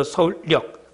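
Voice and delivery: 서울역 said slowly as 서울력; added-sound pronunciation. Shown as a demonstration. Teacher applies the insertion rule, slowly saying 서울역 as 서울력. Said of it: "니은이 첨가됐지".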